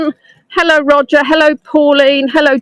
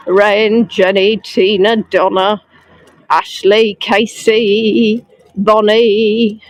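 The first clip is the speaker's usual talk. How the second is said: names read out lower in a sing-song; 4 semitones lower, slower than usual. Real, not acted. Guide reading viewers' names in a low sing-song. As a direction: drop the voice as you roll through the names. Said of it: "I keep saying it like that".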